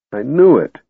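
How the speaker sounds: understated despairing groan. A narrator's reading. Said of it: "Tass groaned".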